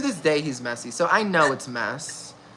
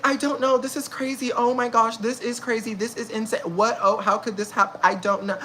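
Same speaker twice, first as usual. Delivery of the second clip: fake innocence; 4 semitones higher than usual. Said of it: "feigning innocence retold".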